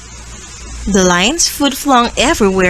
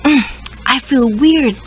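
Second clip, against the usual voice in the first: sniffly sick; 2 semitones higher than usual. Acted. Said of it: "Gorilla sniffled".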